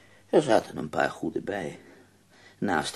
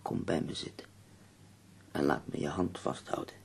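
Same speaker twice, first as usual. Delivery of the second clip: soft, tender endearment, fading to very quiet; 10 dB quieter than usual. Acted. Ailing poet asks companion to hold hands, soft and tender. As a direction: draw them close softly, slowing on the pet name.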